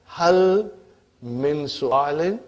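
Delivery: slow example read. Shown as a demonstration. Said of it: "So if you say".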